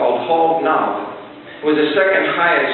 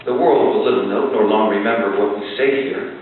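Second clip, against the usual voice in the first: formal recitation. Acted. Speaker reciting the Gettysburg Address to the audience, solemn oration. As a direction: speak it like Lincoln at the field.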